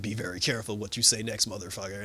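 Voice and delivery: low, restrained warning; lightly imitated menacing hero; Batman. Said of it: "Batman was like".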